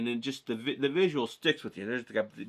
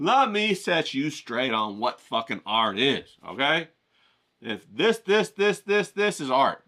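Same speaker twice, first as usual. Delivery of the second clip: louder, slow, emphatic lecture; ranting critic; 4 dB louder, slower than usual. Acted. Critical eye scolding the art dealer, loud and forceful. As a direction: hammer each point home.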